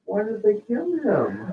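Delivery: imitating sad little girl. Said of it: "She goes".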